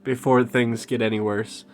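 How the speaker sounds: Little Jacob urging them to get Nico out; Jamaican accent. Acted. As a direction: push the words in a Jamaican lilt. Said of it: "I even said".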